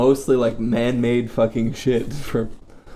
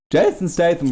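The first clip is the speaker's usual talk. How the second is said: voice cracking; 4 semitones higher than usual. Real, not acted. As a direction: voice cracks mid-word. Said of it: "Your voice cracked".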